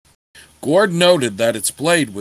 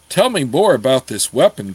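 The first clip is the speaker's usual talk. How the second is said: firm; 4 dB louder than usual. Acted. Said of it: "Gord said firmly".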